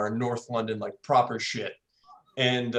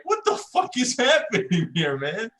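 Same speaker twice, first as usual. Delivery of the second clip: much higher, laughing disbelief; confused laughing; 9 semitones higher, 3 dB louder than usual. Retold or imitated. Hugged by the stranger, high baffled laughing question. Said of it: "I'm like".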